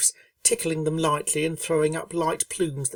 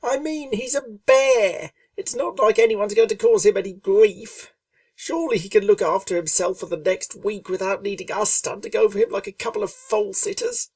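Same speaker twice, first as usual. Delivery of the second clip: higher, louder tomboyish pony voice, annoyed; irritable Rainbow Dash; 6 semitones higher, 4 dB louder than usual. A narrator's reading. Rainbow Dash grumbling to Fluttershy about the trip, higher irritable voice. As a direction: grumble it up high like a restless young pegasus. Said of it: "asked Rainbow Dash irritably".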